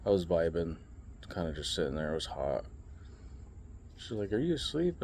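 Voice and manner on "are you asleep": mock waitress. Waitress voiced in retold story.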